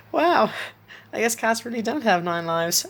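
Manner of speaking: put-on high child voice, bursting with laughter; exclaimed through laughter. A narrator's reading. Isaac jokes about the dead cat, teary with laughter. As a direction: exclaim loud and high, ending in giggles. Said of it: "exclaimed, nearly tear-, teary-eyed from laughter".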